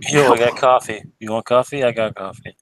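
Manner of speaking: put-on a casual street-accent pitch for coffee; wrong accent. Player offers the party coffee in a slangy street accent. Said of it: "wrong accent".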